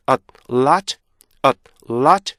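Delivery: "a lot" with a crisp stop before lot. Shown as a demonstration. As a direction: clip "a lot" with a hard stop. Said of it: "이게 아니고요".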